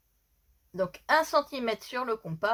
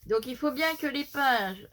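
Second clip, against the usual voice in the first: slight lisp from missing dental brace; 2 semitones higher than usual. Real, not acted. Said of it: "je zozote encore un peu".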